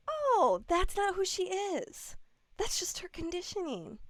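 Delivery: lightly acted self-reassurance, easing off to soft; mock calm realisation. Husband reminding himself about his wife, gently reassuring.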